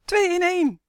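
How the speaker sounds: put-on high, loud children's jeer; joyful gang chant; gleeful whooping. A narrator's reading. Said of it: "joelden ze vrolijk".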